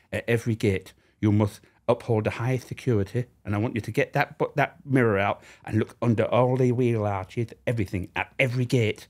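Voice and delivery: officious Yorkshire voice with a lisp; Yorkshire lisp impression. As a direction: give the order in a Yorkshire lisp. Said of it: "Yorkshire with a lisp".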